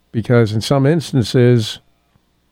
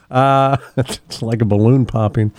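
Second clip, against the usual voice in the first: real chuckles breaking up the words; laughing; 2 semitones lower than usual. Real, not acted. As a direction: talk on while trying not to laugh. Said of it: "I don't know why I'm laughing".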